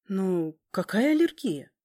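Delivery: stunned. Acted. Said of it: "ошарашенно спросила".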